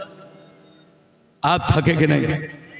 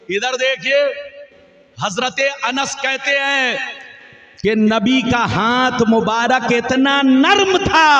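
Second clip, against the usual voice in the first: impassioned preaching to a crowd; full-force devotional preaching; fiery sermon. Acted. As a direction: preach it out, rising and falling with fervour. Stage sermon with Arabic recitation.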